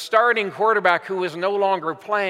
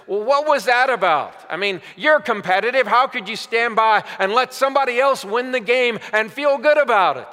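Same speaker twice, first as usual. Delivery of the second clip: higher, louder mock interviewer; incredulous questioning; 4 semitones higher, 4 dB louder than usual. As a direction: press them in mild disbelief. Interviewer challenging Hurts, acted quote.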